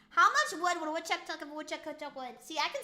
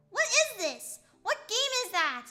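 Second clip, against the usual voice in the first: disbelief; 6 semitones higher, 4 dB louder than usual. Real, not acted. Rising disbelief.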